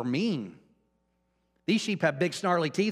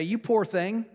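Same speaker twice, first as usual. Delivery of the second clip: higher, mock-pitying voice of God; imagined sympathetic God; 7 semitones higher than usual. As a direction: play God siding with a sulker. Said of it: "I wanted him to say".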